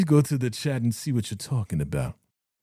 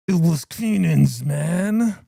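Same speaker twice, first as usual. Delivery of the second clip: retold Kanan line; 3 dB louder, much slower than usual. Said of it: "He was like".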